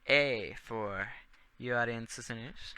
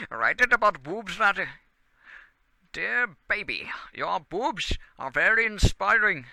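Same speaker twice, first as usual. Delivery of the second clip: higher, louder crooning love song voice; mock serenade; 9 semitones higher, 8 dB louder than usual. Singing a cheeky love song to a crush, hammed-up. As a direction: croon it like a hammy lover.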